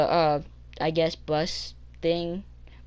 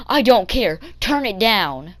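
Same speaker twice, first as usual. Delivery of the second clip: louder, higher mock dismissal; imitated irritation; 3 semitones higher, 5 dB louder than usual. Bus driver refusing kid's excuse, imitated irritation. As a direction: cut the kid off, imitating the driver.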